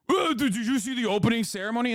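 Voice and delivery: quick, mock-whiny imitation; mocking complainer. Mock quote of complaining people.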